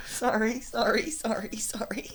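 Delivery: high, flustered sorries; startled apology. Real, not acted. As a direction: yelp out sorry, laughing. Fumbles dog, apologizes.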